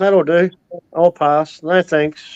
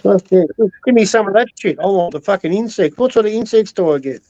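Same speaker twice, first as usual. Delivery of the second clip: mock eager addict; 4 semitones higher than usual. Mocking an ice user.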